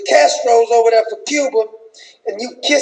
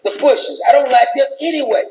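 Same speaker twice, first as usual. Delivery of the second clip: Michelle with attitude. Retold or imitated. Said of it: "She said".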